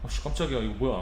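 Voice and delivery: soft startled curse; cursing under breath. Real, not acted. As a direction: mutter the curse quietly. (작게 중얼거리는 욕)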